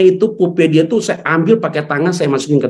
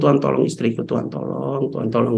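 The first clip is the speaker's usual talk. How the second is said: softer, pleading "Tuhan, tolong" with no shouting; quiet desperate prayer; 2 semitones lower, 6 dB quieter than usual. Retold or imitated. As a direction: murmur the plea for help without raising the voice. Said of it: "Saya nggak teriak sama sekali".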